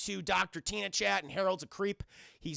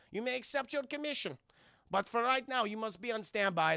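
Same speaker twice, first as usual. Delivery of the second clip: put-on high, shouted German accent that then slows; a German boss barking at his Marines; hammed-up German accent, insisting; stereotypical German accent; 4 semitones higher than usual. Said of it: "very stereotypical German accent".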